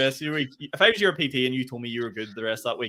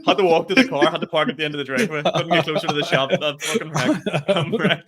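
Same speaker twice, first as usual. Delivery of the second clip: mock exhausted; 6 dB louder than usual. Mocking his cardio.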